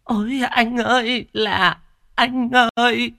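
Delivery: high, loud hammed-up mourning wail; fake wailing. Cúc fake-wailing at the funeral, hammed-up lament. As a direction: wail falsely over the dead brother. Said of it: "cố tình vật vã gào lên gào xuống".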